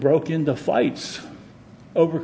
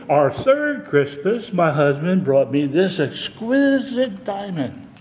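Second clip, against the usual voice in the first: bragging rich lady; 4 semitones higher, slower than usual. Acted. Rich lady brags about gifts.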